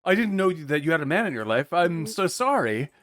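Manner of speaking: a hint of a flustered old lech; lightly voiced drunk lech caught by the boyfriend; fake apology. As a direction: backpedal sheepishly, slowing at the end. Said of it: "the old drunk lech is like".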